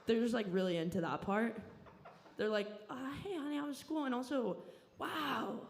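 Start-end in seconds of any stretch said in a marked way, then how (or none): 2.9-5.6 higher, sweet mock mom; imitating mom. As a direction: put on the fake-cheery mother. Mom voiced in story.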